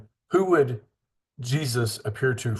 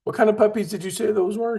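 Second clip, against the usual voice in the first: puzzled question; 10 semitones higher than usual. Retold or imitated. Man asks the kid about puppies, high and puzzled. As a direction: feign confusion about the puppies. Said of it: "and he goes".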